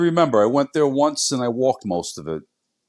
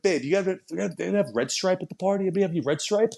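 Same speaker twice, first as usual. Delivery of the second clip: put-on higher, softer teasing Caribbean accent; mock Caribbean accent; 6 semitones higher, 5 dB quieter than usual. Husband asking his wife about party drinks, mock Caribbean accent. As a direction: imitate the teasing husband in a raised Caribbean lilt. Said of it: "I love it".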